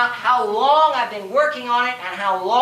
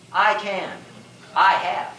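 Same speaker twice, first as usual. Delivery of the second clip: lower, measured answer after a pause; 4 semitones lower than usual. Acted. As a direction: answer your own challenge with calm certainty. Answers his own taunt.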